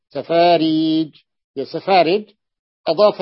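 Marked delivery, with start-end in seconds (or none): 0.1-1.2 سفاريج slowed, the long ي held; drawn-out سفاريج. Shown as a demonstration. Teacher stretching سفاريج to show the added ي. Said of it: "قبل الحرف الأخير".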